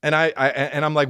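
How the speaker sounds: ordinary delivery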